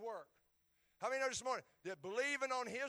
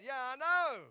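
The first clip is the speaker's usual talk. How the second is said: louder, higher, fed-up admission; exasperated yeah I know; 6 semitones higher, 11 dB louder, slower than usual. Retold or imitated. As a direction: give in to the accusing voice. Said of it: "And I go".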